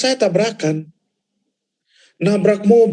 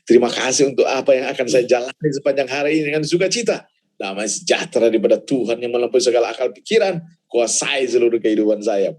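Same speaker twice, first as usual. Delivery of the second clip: retold morning prayer; 7 semitones lower than usual. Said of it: "dan bilang begini sama Tuhan".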